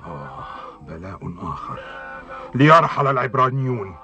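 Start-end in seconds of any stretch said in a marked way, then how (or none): 0.1-1.8 weary groan. Acted. Pharaoh groans at plague.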